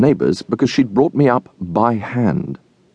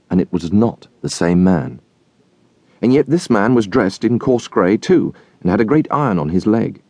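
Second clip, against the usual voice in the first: ordinary delivery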